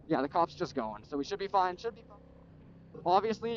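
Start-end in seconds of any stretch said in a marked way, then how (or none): 1.8-3.0 whispering. Real, not acted. Muttered hope while cop passes.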